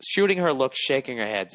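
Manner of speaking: usual speaking voice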